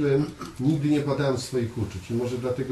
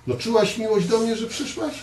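teasing; 9 semitones higher than usual. Retold or imitated. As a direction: tease his wife with high, playful questions. Mock teasing questions to Marta. (żartobliwe, wysokie pytania do żony)

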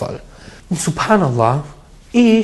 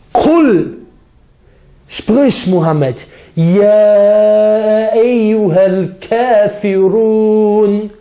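chanted Arabic recitation, higher and drawn out; Quran recitation; 4 semitones higher, much slower than usual. Acted. Preacher quoting the Quran to his audience, chanted recitation. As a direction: intone the verse like a reciter. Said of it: "Was sagt Allah im Koran?".

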